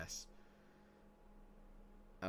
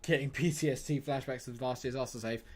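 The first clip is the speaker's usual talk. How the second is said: usual speaking voice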